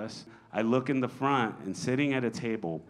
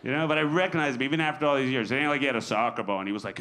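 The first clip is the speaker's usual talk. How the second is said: usual speaking voice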